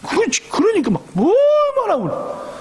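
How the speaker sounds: high, keening wail; a mother's wail over her lost son. Acted. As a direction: cry it out high like a grieving mother. Mother's endless weeping.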